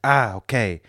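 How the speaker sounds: put-on comic Italian-accented English; comically Italian. Italian driver getting acquainted, comic Italian accent. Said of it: "the comically stereotypical accent".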